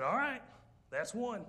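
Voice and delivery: high, loud flat warning; dry husband warning. Retold or imitated. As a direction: count it off like a calm threat. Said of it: "he said".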